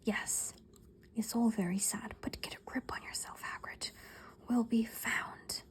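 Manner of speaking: soft unvoiced whisper. A narrator's reading. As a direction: whisper it, barely audible. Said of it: "Professor McGonagall whispered".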